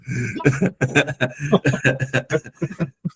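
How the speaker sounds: long, amused laugh; real sustained laughter. Real, not acted. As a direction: keep laughing at the chat joke. Rindo da piada do chat. (gargalhada prolongada e espontânea)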